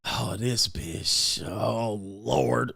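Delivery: mock exasperation. A man hearing a woman's complaint, muttering mock exasperation. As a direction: sigh it out like you've heard it before. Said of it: "You be like".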